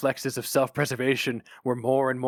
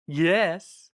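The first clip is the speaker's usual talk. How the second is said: sweetly; 8 semitones higher, 6 dB louder than usual. Acted. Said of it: "said Flammer sweetly".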